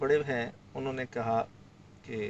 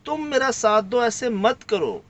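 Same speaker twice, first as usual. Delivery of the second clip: higher, urging plea for help; retold plea to a frightened man, pitched up; pleading; 4 semitones higher than usual. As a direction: beg him to stand by you. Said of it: "میں نے اسی کو کہا".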